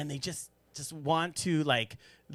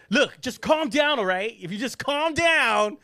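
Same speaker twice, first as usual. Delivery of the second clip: higher, slow, patronizing soothing; mocking a friend who tells you to calm down, slow and higher; 8 semitones higher, slower than usual. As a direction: talk down to them like a fussing nanny. Mocking someone saying calm down.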